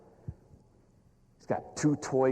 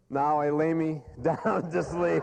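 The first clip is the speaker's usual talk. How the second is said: mock bedtime prayer; 4 semitones higher, slower than usual. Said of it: "William Perry prayed this prayer".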